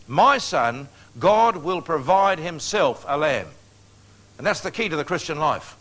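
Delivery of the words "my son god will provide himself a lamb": weighty, slowing delivery with strong stresses; solemn scripture declaration. Retold or imitated. Abraham answering his son about the sacrifice, solemn declaration. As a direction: proclaim it slowly and firmly as Abraham.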